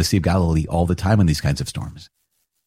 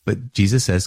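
ordinary talk, nothing marked

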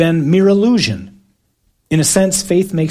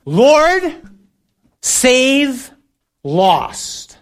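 high, drawn-out yell over a storm; desperate shout across the boat; screamed plea; 9 semitones higher, much slower than usual. Shown as a demonstration. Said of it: "here's how you have to say it".

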